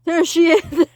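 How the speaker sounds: loud high shout; child shouting on seeing the witch; alarmed shout. Acted. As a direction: shout the warning.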